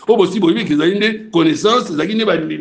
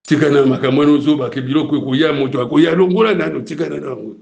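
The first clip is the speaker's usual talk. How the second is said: a lightly lowered, scornful voice for the rulers; voicing the Roman councils; 5 semitones lower than usual. Preacher voicing the Roman rulers rejecting Jesus, lightly mocking. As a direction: play the council dismissing Jesus, mildly mocking. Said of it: "Bango empire romain d'Orient et d'Occident".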